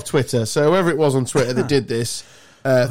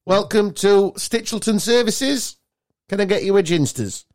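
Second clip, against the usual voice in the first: services greeter; 6 semitones higher than usual. Pretend. Mock services welcome.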